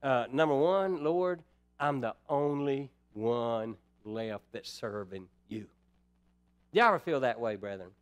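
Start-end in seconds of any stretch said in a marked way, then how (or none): 0.3-5.7 lightly voiced weary prophet, low and slow; a hint of a worn-out Elijah complaining to God; Elijah lamenting. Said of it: "and he says".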